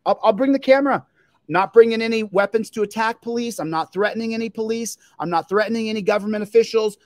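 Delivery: fired-up vow to the cops; heated declaration. Real, not acted. Auditor loudly warning the police he is coming.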